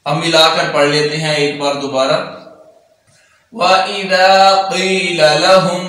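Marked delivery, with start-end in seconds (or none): 3.5-5.8 measured tajweed chant, drawn-out vowels; Quran recitation. Shown as a demonstration. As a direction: recite it melodically, slowly. Teacher recites Quran verse. (تجوید کے ساتھ قرآن کی تلاوت)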